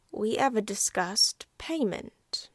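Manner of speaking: hushed, breathy threat to the passengers; menacing whisper. Acted. Stranger hints at payment to Emily's aunt, whispering. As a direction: lean in and whisper the demand.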